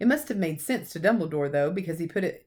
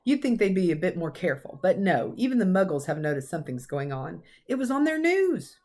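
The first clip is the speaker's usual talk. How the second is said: lightly voiced stern old professor, cross; a hint of a brisk Scottish teacher scolding; McGonagall. Professor scolding Dumbledore about careless celebrating, lightly stern.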